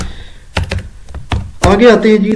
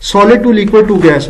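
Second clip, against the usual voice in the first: slow mocking read; 3 semitones higher, much slower than usual. Shown as a demonstration. Teacher mocks a slide's wrong sentence, slow and deliberate. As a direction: read the faulty phrase very slowly, each word apart. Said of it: "واہ جی واہ".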